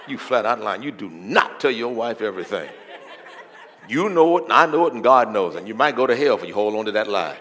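loud preacher calling out a liar; loud accusation. Acted. Preacher confronts husbands claiming they tell everything, loud rebuke.

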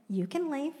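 understated calm reply; calm God voice. Acted. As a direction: say it plainly and gently. Voicing God's calm reply.

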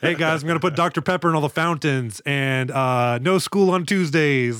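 lightly voiced student campaign promise; mock class-president candidate. Co-host mocking the villain as class president, lightly put-on candidate voice. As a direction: play at a school election candidate. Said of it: "running for, uh, school class president".

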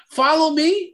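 disbelieving repeat of "Follow me?"; incredulous echo. Real, not acted. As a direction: throw "Follow me?" back in disbelief with a rising end. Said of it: "what are we doing?".

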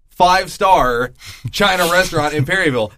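Five-star said slowly and stressed; slow emphasis on five-star. Real, not acted. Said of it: "I am a five-star man".

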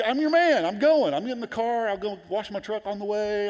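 high, excited rush of offers, starting loud; eager volunteering. Acted. Husband offering wife to run out for sugar, high and eager. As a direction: pitch yourself keenly for the errand, voice way up. Acting out his own eagerness.

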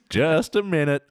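лёгкая пародия на оператора шлагбаума; lightly imitated gate operator line; Boomgate operator. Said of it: "The way that the Boomgate operator says".

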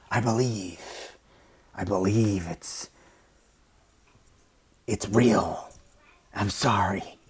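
slow, hushed, sliding into a whisper on the apology; a hint of imitating a tearful convert; mock choked-up confession. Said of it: "they get all choked up and crying".

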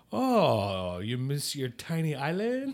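put-on drawn-out teasing French-accent jeer; mocking French accent. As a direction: tease like a snooty French waiter, accent on. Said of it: "he starts making fun of me".

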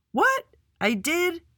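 very high, squeaky disbelief; astonished. A narrator's reading. Andy learning he earned his badge, astonished. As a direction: shoot the pitch way up in surprise. Boy hears surprising good news.

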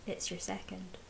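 calm audiobook reading, dialogue lightly voiced; story narration. A narrator's reading. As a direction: read the passage aloud like an audiobook. Reads novel passage aloud.

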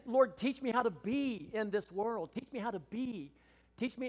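fervent prayer. Retold or imitated. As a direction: cry out to God from the heart. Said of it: "I said".

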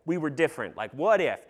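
put-on eager pitch to teens, climbing to a loud finish; excited pitch. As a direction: build the youth-group vision with rising enthusiasm. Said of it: "I was like".

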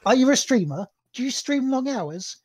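advert voice. Pretend. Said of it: "and the advert is".

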